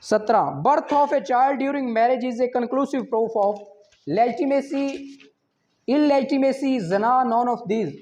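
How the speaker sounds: slow, careful reading of an exam question; measured quiz reading. Acted. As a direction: read each option out deliberately. Reads exam question slowly.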